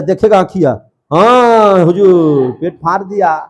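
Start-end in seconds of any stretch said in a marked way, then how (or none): 1.1-3.4 hammed-up, very drawn-out first words; mock servant report. Eyes report to master brain, mock drawn-out wail. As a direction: stretch the reply out, then drop to normal.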